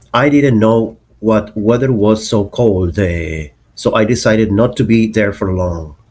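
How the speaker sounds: Canadian example sentence with the "eh" tag; Canadian accent. Shown as a demonstration. Teacher giving an example of Canadian eh, Canadian accent. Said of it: "Another particular sound is e".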